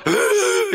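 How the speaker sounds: high-pitched demon-possessed moan; possessed wail. Acted. Preacher acts out a possessed woman, high wailing groan. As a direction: let out a high, eerie groan. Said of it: "일곱 귀신 들려서".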